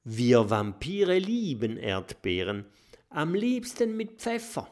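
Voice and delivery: lightly voiced little vampire, rising high; proud little vampire.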